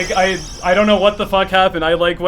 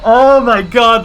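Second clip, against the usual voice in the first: thrilled; 4 semitones higher, 7 dB louder, slower than usual. Real, not acted. Recounting the best segment.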